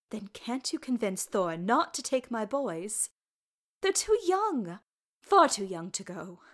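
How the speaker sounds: put-on anxious mother begging for her boys; distressed mother. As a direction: plead hard, stretching out "too young".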